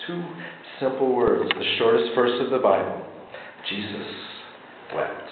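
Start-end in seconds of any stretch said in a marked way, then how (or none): 3.7-5.3 hushed reading. Real, not acted. Reads the shortest verse, hushed.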